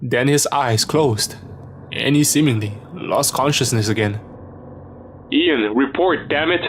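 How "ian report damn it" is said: mild shout. Acted. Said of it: "Adams shouted over the radio".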